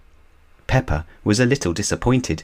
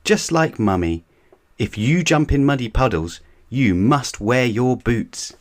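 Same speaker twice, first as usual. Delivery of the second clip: put-on a higher little-girl voice, bossy older sister; Peppa's voice; 5 semitones higher than usual. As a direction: lecture him like a big sister. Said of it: "Peppa said".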